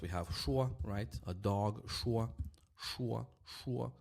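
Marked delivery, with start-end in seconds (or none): 1.9-3.3 "šuo" said softly with hushed sh; š without vibration. Shown as a demonstration. Teacher showing the unvoiced letter, hushed sh. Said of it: "no vibration". 3.5-3.9 "šuo" softly, starting on a hushed sh; š without vibration. Shown as a demonstration. Teacher showing no vibration, hushed sh. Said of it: "no vibration".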